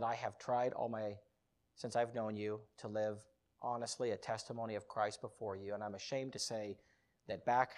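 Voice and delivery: low, soft letter to a father; subdued confession. Retold or imitated. Son emailing his dad a confession, subdued and low. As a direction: confess it quietly. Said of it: "Dear Dad".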